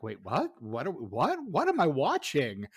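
mock-baffled, with swooping question pitch; puzzled viewer's disbelief; baffled reaction. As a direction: act out a confused double take, stretching the final question.

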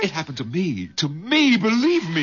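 high urgent plea; pleading. Acted. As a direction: beg her to believe. Pleading with wife.

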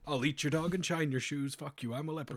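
lightly put-on Irish leprechaun accent; a hint of a cheeky Irish leprechaun. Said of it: "you sound like a fucking leprechaun".

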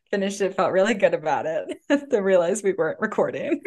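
giggling through the words; can't stop laughing while talking; hiccup giggles. Real, not acted. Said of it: "I just can't stop laughing".

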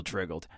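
"triggered" slurred toward "triggled"; tongue slip. Real, not acted. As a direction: stumble on "triggered" so the middle turns to an L. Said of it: "I'm stumbling over words".

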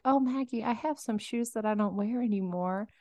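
softly voiced sweet grandmother; a hint of a sweet little old lady. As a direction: gently imitate a tiny grandmother offering a gift. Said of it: "his very sweet grandmother".

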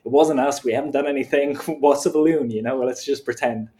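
flustered guilty company scrambling; panicked company voice. Retold or imitated. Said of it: "And so they're like".

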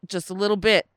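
a hint of a New York accent. Friend attempts Dice's New York accent, admits failing, lightly voiced. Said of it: "I can't do his accent".

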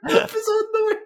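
shrieky falsetto Scottish nanny; Missus Doubtfire. Acted. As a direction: call out loudly as a caricature old lady. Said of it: "Missus Doubtfire on the pirate ship".

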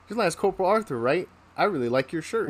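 falsely friendly, lightly imitated superior; mock admiration. First sergeant feigns admiring the shirt.

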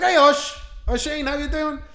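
high-pitched cheery greeting. Retold or imitated. Recovered man greeting the teller in town, mock cheery. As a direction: imitate a suspiciously chirpy hello. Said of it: "now he's a bit cheery".

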